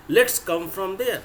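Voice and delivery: slow teacher model sentence; slow dictation. Shown as a demonstration. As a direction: drag it out for the class. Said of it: "preposition from का इस्तेमाल".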